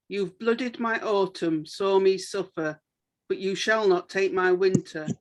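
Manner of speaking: measured poetry reading with pauses; deliberate, even verse delivery; poem recital. Acted. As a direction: read your poem line by line, pausing between phrases. Recites own short poem.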